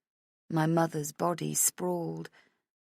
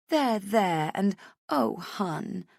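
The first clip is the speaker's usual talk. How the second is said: put-on high, sympathetic girlfriend voice; comforting friend; 4 semitones higher, much slower than usual. Friend in the toilets consoling crying Rach, high and sympathetic. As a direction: soothe her like a worried best friend. Vivian soothing.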